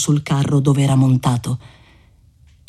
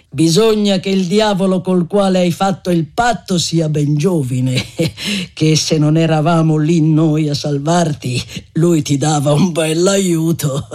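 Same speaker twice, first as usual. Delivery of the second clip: scornful pity. Acted. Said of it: "con una cert'aria di compassione sprezzante".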